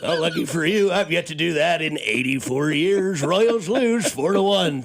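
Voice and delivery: Danny Matthews impression. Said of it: "Danny Matthews".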